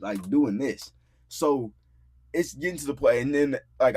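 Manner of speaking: ordinary delivery, nothing marked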